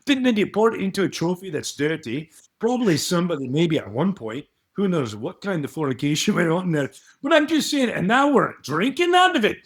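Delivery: hammy Scottish pundit rambling about trophies; Ian McGregor. Pretend. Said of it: "his name is Ian McGregor".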